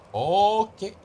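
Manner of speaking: loud nervous okay before a risky step. Real, not acted. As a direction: steel yourself with a loud ok.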